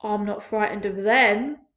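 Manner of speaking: loud defiant shout. A narrator's reading. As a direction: shout your bravado. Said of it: "shouted the centipede".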